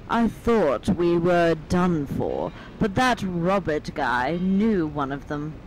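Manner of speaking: slow, measured note reading; reading aloud. A narrator's reading. Player reads found manifest to friends, slow reading aloud. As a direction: read the note out unhurriedly.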